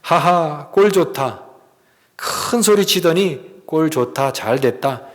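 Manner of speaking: mild mock gloating; retold sarcastic jeer. Preacher voices mockers at Golgotha, mildly sarcastic. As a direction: lightly imitate a sneering onlooker. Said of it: "굉장히 비아냥거리고".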